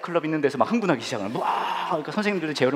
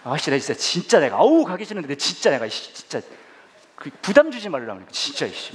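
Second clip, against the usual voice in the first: grumbling prayer. Retold or imitated. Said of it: "막 그렇게 기도했어요".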